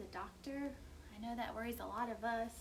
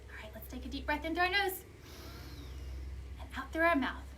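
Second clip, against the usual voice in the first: breathing guide; 2 semitones higher, faster than usual. Shown as a demonstration. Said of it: "You wanna try that again?".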